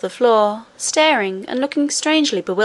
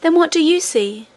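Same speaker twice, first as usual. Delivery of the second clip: eager question; 7 semitones higher than usual. A narrator's reading. Princess asks, higher.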